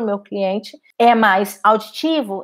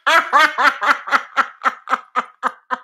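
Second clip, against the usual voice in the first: laughing. Real, not acted. Laughs at her own emphasis.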